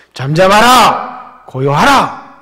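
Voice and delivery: slow, loud command to the sea; commanding rebuke. Acted. Jesus commanding the raging sea, slow loud command. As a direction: order the storm to be still. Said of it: "이렇게 꾸짖으시는 겁니다".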